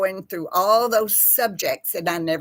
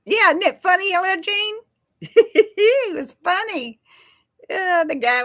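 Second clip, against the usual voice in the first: laughing; 12 semitones higher, 5 dB louder than usual. Real, not acted. Still laughing about the video.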